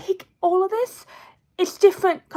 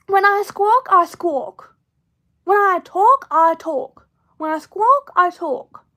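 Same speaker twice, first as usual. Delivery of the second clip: tagline; 5 dB louder, slower than usual. Shown as a demonstration. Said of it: "I'm just dropping some tagline".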